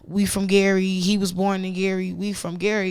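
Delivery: lightly voiced proud relatives claiming him; mock proud family. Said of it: "now his family is like".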